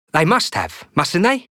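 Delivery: rising to a high anxious question; begging to be told it's true; pleading boy. Acted. Fat boy seeks reassurance.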